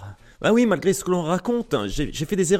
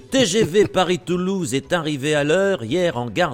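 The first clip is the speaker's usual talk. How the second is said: over a PA system; 3 semitones lower, slower than usual. Pretend. Mock station announcement.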